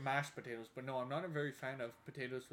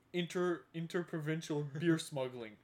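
louder, laughing while quoting the plan; laughing quote; 2 semitones higher, 8 dB louder than usual. Retold or imitated. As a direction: relay the scheme through laughter. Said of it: "And he's like".

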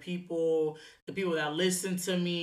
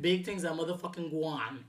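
jokey fake Jamaican accent; 8 dB quieter than usual. Shown as a demonstration. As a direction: lay on a bad Jamaican accent. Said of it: "my fake sucky ass Jamaican accent".

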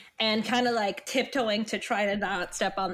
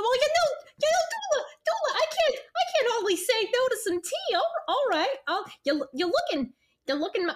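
put-on southern accent; 12 semitones higher than usual. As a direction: play a bashful southern gent. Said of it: "I'm going so southern".

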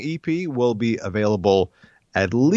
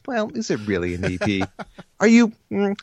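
self-mocking inner voice. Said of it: "self-deprecating part of the back of my brain says".

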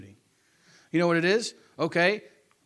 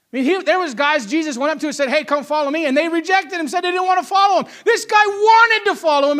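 raised, fast preaching voice building louder; impassioned preaching; 7 semitones higher, 7 dB louder than usual. Real, not acted. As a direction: preach it with rising disbelief. Preaches at full force.

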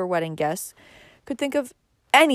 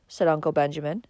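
plain reading voice

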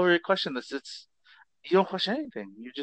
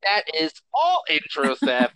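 Coneheads voice; 3 semitones higher, 4 dB louder than usual. Acted. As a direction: announce it like a formal alien. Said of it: "No more alien voice".

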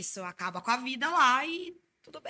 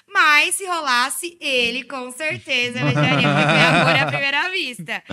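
excited; 2 semitones higher, 9 dB louder than usual. Real, not acted. Gushing over meeting her boyfriend.

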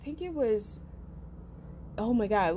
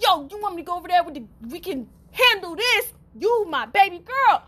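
lightly voiced protective mom, fast; a hint of a fierce mother; mom's voice; 9 semitones higher, 3 dB louder than usual. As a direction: rush in as a mom ready to fight. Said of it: "my mom dukes like".

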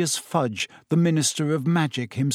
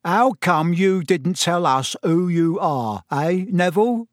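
1 beaming Stan; 3 semitones higher, 3 dB louder than usual. A narrator's reading. Stan beams at Harry.

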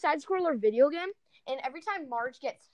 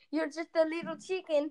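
Tommy Wiseau impression; 5 semitones higher than usual. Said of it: "here's my favorite line from it".

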